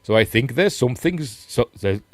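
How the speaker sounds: put-on a half-hearted stab at a Welsh accent; a weak, joking Welsh accent. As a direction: try a Welsh lilt, not quite managing it. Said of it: "I should be doing this in a Welsh accent".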